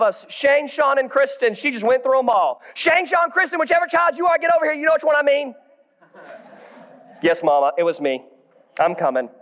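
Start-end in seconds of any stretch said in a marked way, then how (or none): 2.7-5.5 a mild mock yell of a mother; mom yelling. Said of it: "my mom would just yell names". 7.2-9.3 put-on child answering. Child answering scolding mother.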